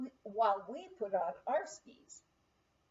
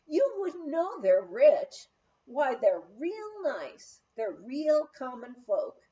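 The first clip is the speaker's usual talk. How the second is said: folksy cook voice; 6 dB louder, slower than usual. Retold or imitated. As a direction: voice Pet, the plainspoken cook. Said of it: "she would say to me".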